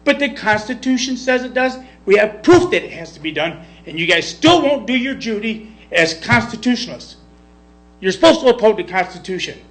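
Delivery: pushing back hard, voice rising with feeling; getting emotional. Real, not acted. Citizen scolding the board over the oath, heated. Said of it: "I'm getting emotional".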